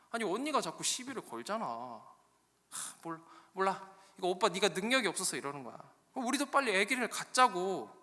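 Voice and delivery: high-pitched, petulant wife's complaint; hammed-up sulky protest; whining Rachel. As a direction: whine to your husband for sympathy. Acted Rachel whining to her husband.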